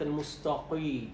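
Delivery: "المستقي" with the qi too thick and dark; over-thicken the ق in "المستقي"; over-heavy qaf, wrong. Shown as a demonstration. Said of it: "ليست". (مبالغة في تفخيم قاف "المستقي")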